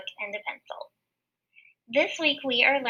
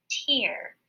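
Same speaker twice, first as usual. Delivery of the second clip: tear. Shown as a demonstration. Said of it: "and it says".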